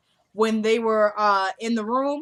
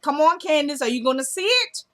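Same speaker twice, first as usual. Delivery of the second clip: exasperated urging; 5 semitones higher, 4 dB louder than usual. Acted. Viewer urging Candace to notice.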